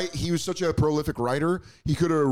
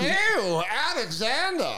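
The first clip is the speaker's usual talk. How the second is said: high put-on swoon; hammed-up swooning lover; mock swooning; 11 semitones higher, slower than usual.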